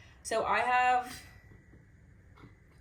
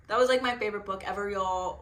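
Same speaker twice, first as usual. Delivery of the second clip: tearful gush; 5 dB louder than usual. Real, not acted. Gushing about favourite book.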